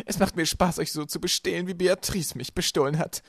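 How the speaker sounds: high, loud gloating; spiteful villainess. A narrator's reading. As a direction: rub it in with loud relish. Villainess revels in stealing. (hämisch, hoch und laut)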